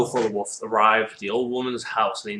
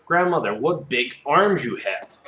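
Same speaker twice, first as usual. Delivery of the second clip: slow, higher-pitched wonder; amazed little girl; 4 semitones higher, slower than usual. Acted. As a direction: marvel at grandmother, drawn out and high.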